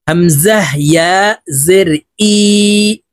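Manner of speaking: "হামজাহ" with a firm catch, slowly spelled; firm hamza. Shown as a demonstration. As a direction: hit the hamza in "হামজাহ" hard, then draw out "ই". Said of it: "হামজা শক্তভাবে উচ্চারণ করতে হবে". ("হামজাহ" শক্তভাবে উচ্চারণ)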